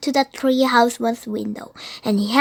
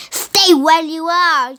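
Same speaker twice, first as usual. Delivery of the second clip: shouted; 4 semitones higher, 4 dB louder, slower than usual. Acted. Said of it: "Jack shouted".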